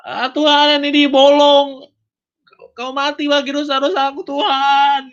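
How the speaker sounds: high-pitched wailing cry to God; loud reenacted screaming. Believer seeing the pierced hands of Jesus, screaming in awe. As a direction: cry it out high, stretching the ends. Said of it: "Kayak menjerit sangat keras".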